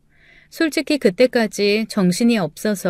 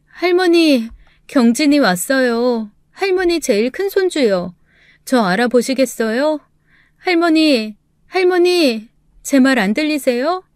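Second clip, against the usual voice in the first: higher, urgent calls to grandma; a grieving young woman pleading to be heard; pleading granddaughter; 4 semitones higher than usual. Acted. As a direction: call out to a dying grandmother, near tears. Granddaughter calling dying grandmother.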